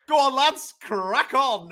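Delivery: high, loud, put-on voice, waving the lads on; breezy "go on lads" like a bystander with the best seat; Goddard's casual wave-on. Mocking a fighter standing by, loud and high. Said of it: "He went".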